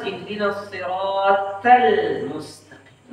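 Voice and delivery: slow "siratal" with a puff of air on the t; aspirated t in "siratal", shown as an error; breath on tha. Shown as a demonstration. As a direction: let breath escape on the t of "siratal". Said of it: "memberinya sifat hamas".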